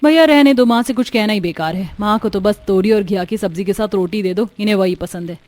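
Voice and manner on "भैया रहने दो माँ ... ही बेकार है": exasperated outburst. Acted. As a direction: cut your brother off sharply. Sister cutting off the argument.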